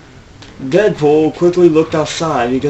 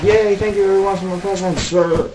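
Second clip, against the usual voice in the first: squeaky put-on voice; 7 semitones higher than usual. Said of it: "I'm like".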